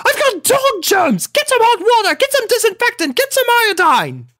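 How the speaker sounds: very high, loud frantic orders; panicked rant. A narrator's reading. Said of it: "continuing to rant".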